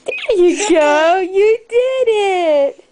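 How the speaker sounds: choked-up happy laugh; teary, laughing praise; laughing through tears. Real, not acted. Baby stands up, parent moved.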